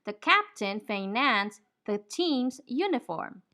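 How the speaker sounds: slow, careful model sentence; slow demo reading. Shown as a demonstration. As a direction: read it slowly for learners to copy. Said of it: "We say".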